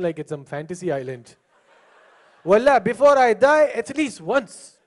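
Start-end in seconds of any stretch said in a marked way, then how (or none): 2.4-4.8 put-on slow Arabic-accented plea, stretched out; Arabic-accented wish, drawn out; Arabic accent imitation. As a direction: mimic a Gulf Arab's wistful wish. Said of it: "what do you say before that?".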